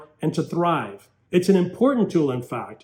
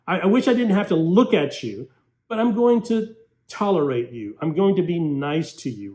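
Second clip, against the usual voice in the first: grudging threat; 3 semitones higher than usual. Retold or imitated. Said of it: "It sounds like".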